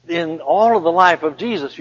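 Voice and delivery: ordinary delivery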